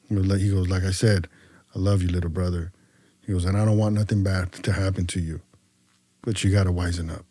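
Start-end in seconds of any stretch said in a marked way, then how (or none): 0.7-2.7 low, soft, sincere reassurance; retold tender word, kept low; brotherly affection. 3.4-7.2 low, softened brotherly counsel; retold earnest advice, kept low; caring warning.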